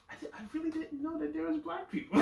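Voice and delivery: high, fast words through laughter; laughing. Real, not acted. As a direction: admit it while giggling. Laughing embarrassed admission.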